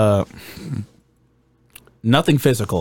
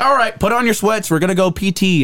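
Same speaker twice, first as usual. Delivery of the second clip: high-pitched imitated instructor call; drill instructor order; 7 semitones higher than usual. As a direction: call the recruits out to exercise. Instructor giving orders, acted out.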